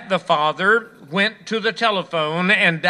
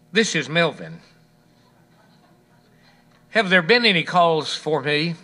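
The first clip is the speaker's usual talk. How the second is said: calm. Acted. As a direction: play innocent, calm as can be. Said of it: "The father calmly said".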